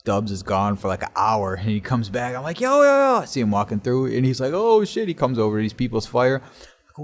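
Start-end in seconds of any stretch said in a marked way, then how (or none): 2.6-3.2 high, loud retold hail; calling out. Teen spots returning friend, calling out. 4.5-5.1 high, louder exclamation; imitated surprise. Friend comes over to fire, imitated surprise.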